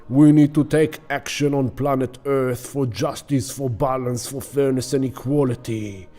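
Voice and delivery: lightly voiced war god's rallying cry; a hint of a war herald. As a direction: declaim a call to arms, starting loud. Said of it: "The god of war is blowing the horn of war".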